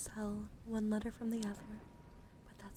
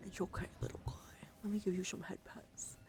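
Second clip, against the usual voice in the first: lightly whispered cooing; cooing comfort. Pretend. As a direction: soothe a little creature gently. Soothing a little guy with head pats.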